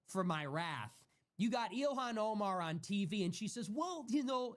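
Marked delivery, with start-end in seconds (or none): 3.7-4.6 mock Somali accent. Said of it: "with her fucking accent".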